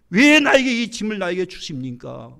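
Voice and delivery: acted complaint, starting loud then falling away; exasperated plea. Moses asking God why he carries this burden, exasperated plea. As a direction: plead in protest, hitting the first word hard.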